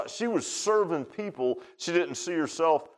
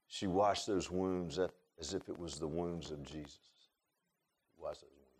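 slow, much softer near-whisper; hushed whisper; 10 semitones lower, 12 dB quieter, slower than usual. Retold or imitated. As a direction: drop to a hush, reverent and slow. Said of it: "went down to a whisper".

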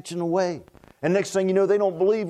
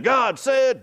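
a hammed-up boom; mock dramatic preaching; 5 semitones higher, 3 dB louder than usual. Shown as a demonstration. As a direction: proclaim it like a big sermon line. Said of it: "if I sit in".

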